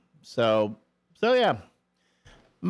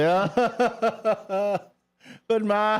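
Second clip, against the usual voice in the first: put-on pleading kid; 8 semitones higher, much slower than usual. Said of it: "I'll be".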